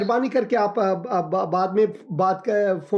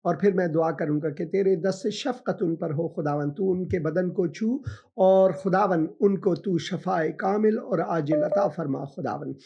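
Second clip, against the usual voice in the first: prayer; 3 dB quieter than usual. Acted. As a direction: pray gently over the caller. Pastor prays for caller.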